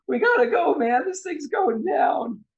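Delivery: high-pitched panicky character voice; scared shouting. Acted. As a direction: yell a frightened warning, drawing out the end. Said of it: "like he's scared to jump".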